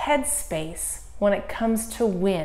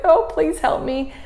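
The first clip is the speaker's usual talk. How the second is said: panicked plea; 9 semitones higher, 6 dB louder than usual. Retold or imitated. Praying while flying downhill scared.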